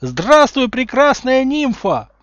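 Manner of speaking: very loud, high, slow adoring yell; bellowed greeting. A narrator's reading. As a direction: roar it across the classroom. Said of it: "проорал Гарри Поттер". (проорал)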